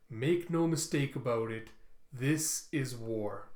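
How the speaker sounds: measured address to the troops; general's speech. Acted. General to recruits before a military mission, formal address. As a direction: deliver a solemn war speech, slowing on weighty phrases.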